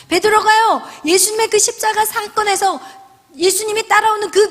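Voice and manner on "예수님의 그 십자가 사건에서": ordinary delivery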